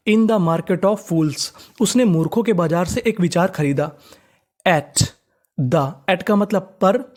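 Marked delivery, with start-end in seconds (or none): 0.1-1.5 slow dictation. Shown as a demonstration. Teacher dictating the English sentence.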